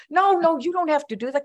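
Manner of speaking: quick, high-pitched protest; retold flustered refusal; arguing. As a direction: protest in a hurry, pitch jumping up. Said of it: "I started to try to argue with him".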